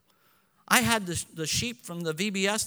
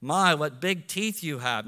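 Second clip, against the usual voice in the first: storybook line; 4 semitones lower than usual. Retold or imitated. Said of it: "No, that's Little Red Riding Hood".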